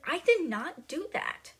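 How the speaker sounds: high, slow mock scream of denial; retold scream. Matilda accused by the headmistress, mild mock scream. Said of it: "like, screaming".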